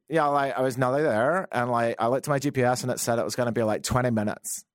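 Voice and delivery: put-on a light, barely shifted Canadian accent, valley-girl lilt; mock a Canadian woman, hardly changing the voice; lightly voiced Canadian impression; terrible Canadian impersonation. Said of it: "This isn't my generic Canadian. It's just a terrible impersonation".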